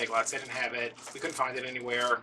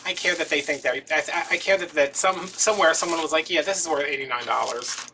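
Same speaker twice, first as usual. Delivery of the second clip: mock passionate speech; 3 semitones higher, 6 dB louder than usual. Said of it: "And I said".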